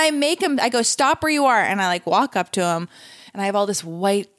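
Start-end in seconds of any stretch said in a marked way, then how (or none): 0.8-1.6 calling out. Retold or imitated. Calling to man walking off.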